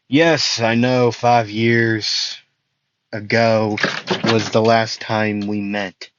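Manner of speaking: lightly voiced hero answering a villain; Midoriya. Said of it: "Midori would cut him off".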